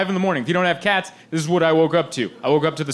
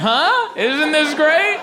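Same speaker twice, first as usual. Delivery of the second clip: high, slow coaxing sell; hammed-up hopeful owner; mock enthusiasm; 12 semitones higher, much slower than usual. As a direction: coax the cats into liking it. Couple coaxing doubtful cats.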